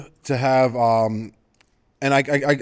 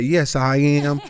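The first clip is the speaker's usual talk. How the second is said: put-on Southern Belle accent; 3 semitones higher, much slower than usual. Host teasing Doctor Nina over her answer, mock Southern Belle accent. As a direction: tease with an imitated Southern Belle lilt. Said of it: "Doctor Nina has this Southern accent".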